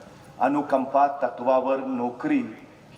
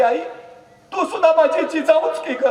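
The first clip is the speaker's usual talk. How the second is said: emotional plea; 6 dB louder than usual. Acted. Raje answers the mother emotionally.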